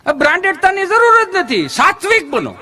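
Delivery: hammed-up holy man preaching simplicity; mock preacher. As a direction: preach it like a pompous guru.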